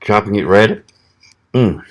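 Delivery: talking through hiccups; hiccuping mid-sentence. Real, not acted. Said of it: "I got the hiccups".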